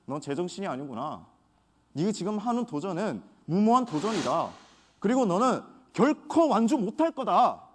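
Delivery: scoffing doubters. Retold or imitated. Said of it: "주변에서 반응은 이랬습니다".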